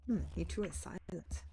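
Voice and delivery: polite game-hero voice; in-character writer hero. Acted. Writer greeting silent monks, in-character hero voice. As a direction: speak as the courteous visiting writer.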